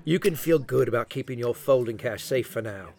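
lightly faked Aussie, teasing the cowboy; a smug bluffer in a put-on Aussie accent; fake Australian accent. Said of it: "I know my accent sucks".

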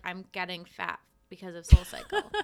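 loud laughing self-quote. Retold or imitated. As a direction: laugh it out loudly. Quoting herself, laughing.

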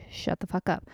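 sharp, voiceless whisper; whispered exasperation. Retold or imitated. Mother venting at chatty boy, exasperated whisper. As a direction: whisper it as a fed-up aside. Fed-up retort to boy's chatter.

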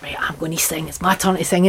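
softly voiced little girl psyching herself up; a hushed, resolute kid's aside; quietly determined child. Singer recalling herself as a little girl waiting to sing, hushed. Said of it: "I'd be like".

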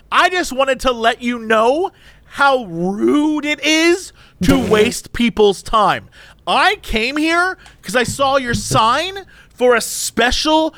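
high, demanding complaining customer; lightly voiced entitled Karen complaining; a hint of Karen. Customer complaining at drive-through window, mock demanding. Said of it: "she's going full Karen".

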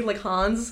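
"Hans" ending in a buzzing z. Shown as a demonstration. Co-host explaining the name lookup, "Hans" with a z sound. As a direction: voice the final s of "Hans" as z. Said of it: "like, with a Z".

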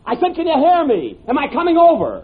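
yelling down a crackly telephone; shouting down the line. Acted. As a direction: shout so the far end hears.

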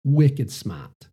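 a mild, self-mocking Boston accent on "Wicked smart", r dropped so "smart" is said "smaht"; a light Boston twang, "wicked smaht"; poor Boston accent. Shown as a demonstration. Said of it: "That's my poor Boston accent".

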